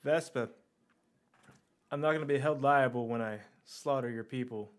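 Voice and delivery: put-on Cockney threat; bad Cockney accent. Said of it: "really bad Cockney accent".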